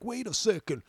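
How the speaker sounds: high, slow whiny put-on voice; hammed-up shocked Trump fan; mocking whiny critic. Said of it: "I'm like".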